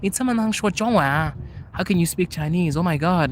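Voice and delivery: mock astonished "oh my God"; amazed question. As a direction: play the stunned local hearing Chinese. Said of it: "it's just the same question".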